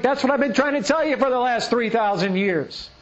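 a hint of God, weary of repeating himself; God's voice. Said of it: "he says".

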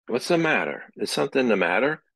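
worried pestering. Retold or imitated. Husband pestering his silent wife, anxious rising questions. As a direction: pester your upset wife with worry.

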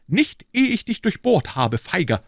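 high, loud battle cry; young fighter shouting at his foe; defiant shout. A narrator's reading. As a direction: hurl the insult while fighting. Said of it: "rief D'Artagnan".

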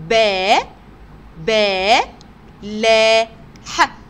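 با، لا، ح loud and separate, repeating long "baa"; teacher loudly spelling با، لا، ح with gaps. Shown as a demonstration. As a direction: sound it out syllable by syllable, ending on short ح. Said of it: "تعالوا نتهجى كده مع بعض".

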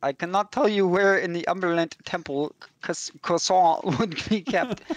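put-on a light, hammy French accent; mock French accent. Priest explaining his need, in mock French accent. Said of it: "Too busy with the accent".

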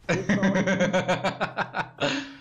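villain laugh. Real, not acted. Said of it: "Ó o cara fazer risada de vilão".

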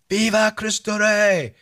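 high, drawn-out call across the desert; yelled rally cry. Retold or imitated. Host calling up to the men on the ridge line, high and drawn out. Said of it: "And then I yell to them".

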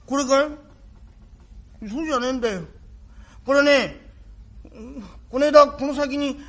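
put-on small boy pleading with his long-lost father; boy's voice. Son telling father about his wound, in a light boy's voice. Rakugo performer voicing the boy.

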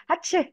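quick imitation sneeze "achoo"; playful pretend sneeze; mock sneeze. Shown as a demonstration. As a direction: fake a small sneeze on "achoo". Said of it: "sounds like when you sneeze".

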